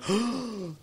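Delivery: sharp, high shocked gasp; imitated gasp. Diners in the restaurant react to the threat, imitated gasp. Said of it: "people going".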